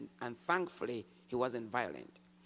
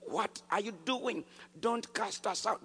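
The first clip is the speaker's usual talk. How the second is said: higher, slow demon plea; pleading demon; 6 semitones higher than usual. Retold or imitated. Demon pleads with the believer not to cast it out, slow plea. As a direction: beg slowly as the demon. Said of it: "demon screamed out and said".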